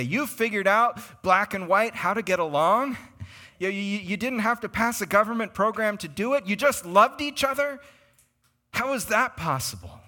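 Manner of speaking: high-pitched incredulous questioning; amazed disbelief. Retold or imitated. The world questioning a united church, incredulous. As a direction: marvel at it, pitch climbing in astonishment.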